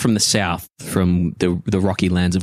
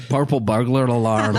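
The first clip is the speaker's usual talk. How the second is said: Irish accent; 3 semitones higher than usual. Shown as a demonstration.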